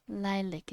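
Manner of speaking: Lilac said softly as "lie-lick"; gentle "lik" ending on Lilac; soft pronunciation. Shown as a demonstration. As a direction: soften the end of Lilac to "lick". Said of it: "is soft and it's nicer".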